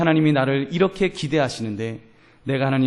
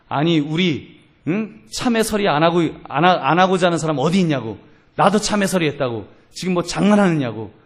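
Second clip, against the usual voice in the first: indignant protest, voice raised and pitched up; retold angry outburst; 4 semitones higher, 4 dB louder than usual. Orchard owner's son rejecting the elder's money, acted anger. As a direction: act out a man scoffing at an absurd apology. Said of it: "막 화를 내더래요".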